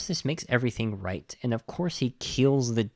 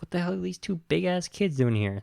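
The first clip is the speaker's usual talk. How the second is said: baffled cowboy; 8 semitones higher than usual. Retold or imitated.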